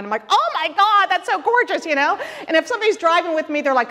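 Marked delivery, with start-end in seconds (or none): 0.3-1.9 delighted exclaiming. Retold or imitated. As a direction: burst out in delight at spring trees. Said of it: "I'm screaming in delight of the divine".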